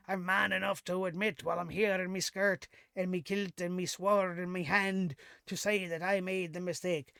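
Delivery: a lightly put-on bad Irish accent; a hint of a bad Irish brogue, hammed-up; terrible Irish accent. Mocking McIntyre's promo in a bad Irish accent. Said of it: "That was a terrible Irish accent".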